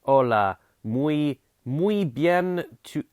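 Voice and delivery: put-on Spanish words "Hola, muy bien tu" read in a slow, lightly French accent; mock French accent on Spanish, drawn out; a hammed-up French accent on "muy bien tu". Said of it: "mix this up with my French accent".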